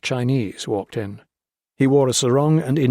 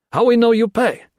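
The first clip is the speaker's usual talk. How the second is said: high, raised voice in broken English; a wary bandit testing the stranger; suspicious guerrilla; 12 semitones higher, 6 dB louder than usual. Acted. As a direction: guerrilla challenging the king. Guerrilla bargaining.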